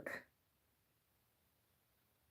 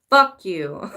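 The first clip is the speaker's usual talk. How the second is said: defiant retort; 5 dB louder than usual. Acted. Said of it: "Energy turns around and says".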